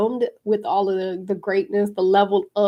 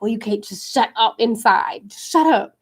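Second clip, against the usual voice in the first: inner voice; 4 dB louder than usual. Retold or imitated. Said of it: "And I was like".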